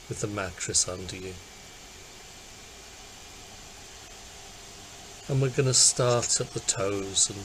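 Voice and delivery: calm, unhurried body-scan guidance; guided meditation. Acted. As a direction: guide listeners gently into relaxing, with long pauses.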